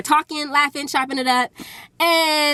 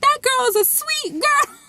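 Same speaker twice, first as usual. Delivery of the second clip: high wailing imitation of a mom; imitated crying; 13 semitones higher than usual. Crying mom defending her daughter's friend, imitated sobbing. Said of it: "then the mom is crying".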